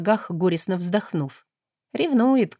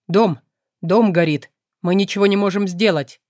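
strained, choked-out words; 4 dB louder than usual. Acted. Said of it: "сдавленно вымолвил слуга".

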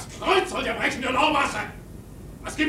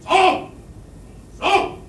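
rhythm call; 3 semitones higher than usual. Acted. Rowing rhythm called out.

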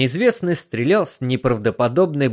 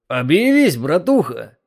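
unsure; 3 semitones higher than usual. A narrator's reading. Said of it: "неуверенно сказал кто-то из женихов".

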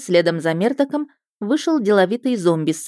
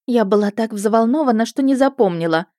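flustered flirt; 5 semitones higher than usual. A narrator's reading. Sister flirting, higher louder.

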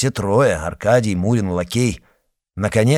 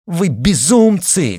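higher, louder, slow cry; breathless shout; 9 semitones higher, 6 dB louder, slower than usual. A narrator's reading. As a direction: cry out while gasping for air. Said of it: "крикнула, задыхаясь".

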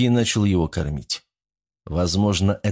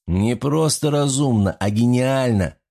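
enthusiastic; 3 semitones higher than usual. Acted. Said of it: "с энтузиазмом заявил Григорьев".

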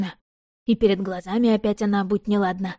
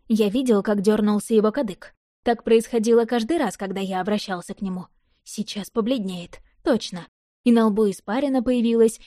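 plain reading voice

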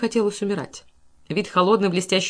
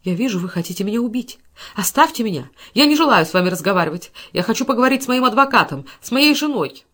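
frightened pleading; 3 semitones higher, 4 dB louder than usual. Acted. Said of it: "дрожа, как лист на ветру".

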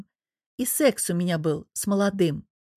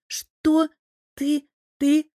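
shocked daughter; 6 semitones higher, much slower than usual. Acted. Дочь потрясена словами матери.

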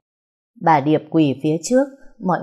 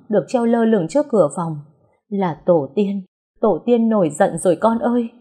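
frightened mother; 3 semitones higher, 3 dB louder than usual. Acted. Frightened mother sees bloody cloth.

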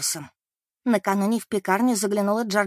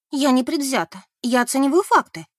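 insistent; 5 semitones higher, 5 dB louder than usual. Acted. Beth defends herself.

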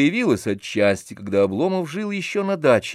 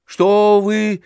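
high, loud worried asking; startled women peering in; alarmed question; 8 semitones higher, 5 dB louder, slower than usual. A narrator's reading. Landlady and Anisya peer in alarmed at the shouting, high and worried. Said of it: "сказали хозяйка и Анисья".

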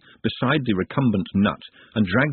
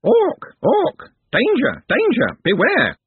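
very high, loud screeched alarm; screaming bird creature; 5 dB louder, slower than usual. A narrator's reading. Bird-woman warning everyone of the orc, screaming. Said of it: "it opened its mouth and screamed".

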